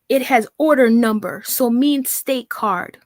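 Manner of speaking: slow, halting read of a garbled text; mocking her garbled writing. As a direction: drag out every broken word. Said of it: "listen to how she writes".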